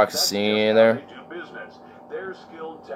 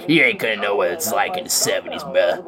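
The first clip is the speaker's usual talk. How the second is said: put-on old-timer rant; 4 semitones lower than usual.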